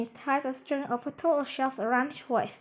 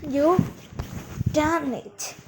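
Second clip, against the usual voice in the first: loud, jubilant cheer; raised-voice congratulation; 3 semitones higher, 5 dB louder, slower than usual. A narrator's reading. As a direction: shout it out in triumph. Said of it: "the professor cheered".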